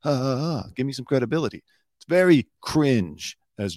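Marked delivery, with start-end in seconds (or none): 0.0-1.6 mocking Ari Melber. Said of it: "he says it like this".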